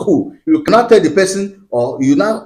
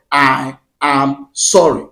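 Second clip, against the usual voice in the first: slow, drawn-out apology; model apology; 2 semitones lower, much slower than usual. Shown as a demonstration. Telling husbands what to say to wives, slow model apology. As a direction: space out each word deliberately. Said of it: "prevent you from saying what?".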